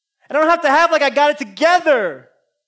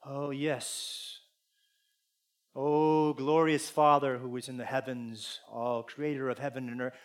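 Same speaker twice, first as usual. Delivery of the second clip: hushed, pompous prayer voice, much softer; lightly hammed-up churchy reverence; mock formal prayer; 10 semitones lower, 12 dB quieter than usual. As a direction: mimic a stiff, grand prayer. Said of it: "we act like God is someone who we have to have".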